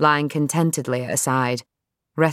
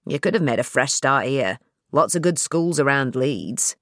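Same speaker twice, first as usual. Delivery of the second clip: dad's voice; 2 semitones lower than usual. Acted.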